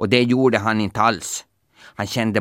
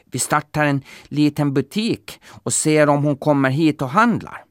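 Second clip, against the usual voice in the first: higher, eager wolf plotting; 6 semitones higher than usual. A narrator's reading. Wolf proposing to open a shop, lightly voiced. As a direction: propose the plan brightly. Wolf's plan.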